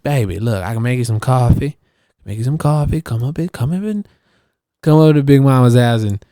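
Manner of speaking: lightly voiced motherly neighbor, climbing in pitch; Rochelle. Neighbor inviting him in for coffee, light impression. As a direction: coax him in an imitated neighbor's voice. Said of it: "Rochelle talks like that".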